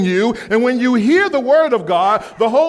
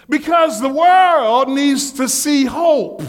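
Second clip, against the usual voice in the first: preaching emphasis; 5 semitones higher, slower than usual. Real, not acted. Preacher driving home the point.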